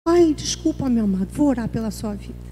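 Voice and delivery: embarrassed apology. Acted. Embarrassed reply to cancer news.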